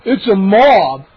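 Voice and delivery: slow, loud, alarmed; alarmed cry. Acted. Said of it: "Moose cried".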